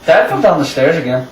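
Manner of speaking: retold casual report; understated, matter-of-fact delivery. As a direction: imitate a brother passing on news as routine. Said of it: "just kind of matter-of-factly".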